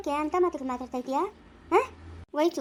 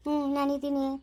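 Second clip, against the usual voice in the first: consoling. Shown as a demonstration. Woman shows child how to comfort crying mother, gently consoling. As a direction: show how to soothe someone grieving. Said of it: "ಇದು ಸಮಾಧಾನ ಮಾಡು".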